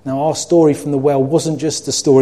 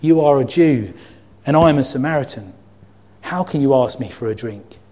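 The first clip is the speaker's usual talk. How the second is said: calmer reading. Shown as a demonstration. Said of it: "Same words".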